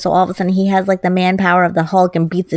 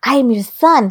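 pleading son; 4 semitones higher, much slower than usual. Retold or imitated. Acting the rejected son's plea.

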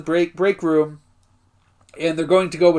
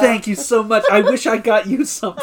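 higher, gushing mock gratitude with a laugh; imitating overjoyed Nate; 4 semitones higher, 3 dB louder than usual. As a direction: thank him as a touched, happy friend. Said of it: "is so happy".

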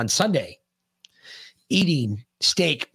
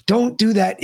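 annoyed; 8 semitones higher, 5 dB louder than usual. Real, not acted. Scolding co-host at computer.

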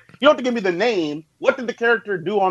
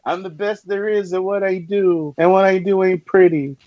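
tiny-voiced Wolverine. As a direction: lightly imitate a Wolverine who sounds too small. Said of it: "he gonna sound tiny".

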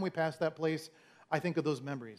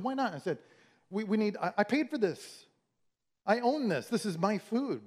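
higher, mock-indignant insisting on his leftovers; indignant protest; 5 semitones higher than usual. Arguing with his wife over leftovers, playfully indignant. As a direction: defend the doggy bag like it's a right.

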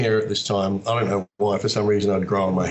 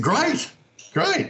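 high rising excited great. Retold or imitated. Actor hearing the agent's news, excitedly high. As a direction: squeak it out with joy.

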